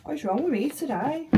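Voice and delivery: high, squeaky near-tears wail; triggered, emotional. Real, not acted. Mother caught off guard by memories, high emotional squeak. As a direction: let the pitch shoot up as emotion takes over. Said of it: "get triggered".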